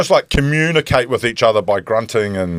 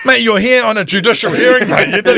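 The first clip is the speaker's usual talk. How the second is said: laughing disbelief; 10 semitones higher, 3 dB louder than usual. Retold or imitated. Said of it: "I said".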